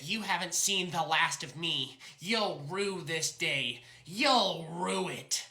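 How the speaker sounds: slow, quiet villain's threat; mustache twirling villain. Acted. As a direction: drawl the vow like a cartoon villain. Sore loser vows revenge.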